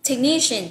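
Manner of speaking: "technician" stressed as tek-NI-shin; stress on second syllable. Shown as a demonstration. Teacher points out word stress to learners, "technician" stressed on NI. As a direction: punch the middle syllable of "technician". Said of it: "nhấn âm số hai".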